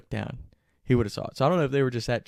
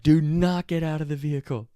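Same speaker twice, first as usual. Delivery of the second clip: loud, raised-pitch imitation of police command; barked order; 5 semitones higher, 6 dB louder than usual. Cops stop Griff climbing from the van, barked order. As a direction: order him firmly to stay put.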